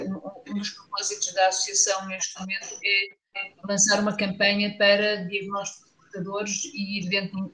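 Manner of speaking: tinny, robotic voice over a bad connection; metallic robot voice. Real, not acted. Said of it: "parece uma voz de um robô".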